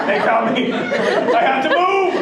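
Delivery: high mock-panicked realisation; hammed-up fear, dragging out the last words. Retold panic after door encounter.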